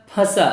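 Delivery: फंसा with a nasal first vowel, for repeating; teacher's repeat-after-me फंसा, first vowel nasalised. Shown as a demonstration. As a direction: model फंसा through nose and mouth. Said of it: "बोलिए मेरे साथ".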